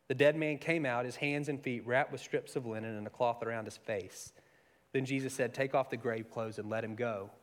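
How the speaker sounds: steady, measured reading of the Gospel; scripture reading. Acted. Preacher reading scripture to the church, measured.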